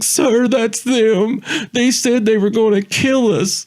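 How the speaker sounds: very high, slow, urgent yell; pointing out the drunk guys to the officer at the top of his voice; yelling to the cop. Retold or imitated. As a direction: shout it out the window like your life depends on it. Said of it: "I yelled as loud as I can".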